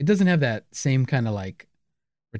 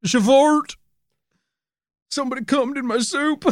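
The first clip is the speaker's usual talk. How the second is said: customer complaint voice; 13 semitones higher than usual. Pretend.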